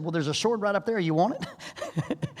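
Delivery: slow, dry teasing offer; mock-helpful donkey voice; sarcastic donkey. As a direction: drawl it like a smug donkey.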